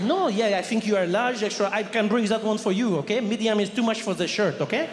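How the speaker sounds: put-on light French accent, condescending; French shop assistant. French clerk correcting the customer's size, in a French accent.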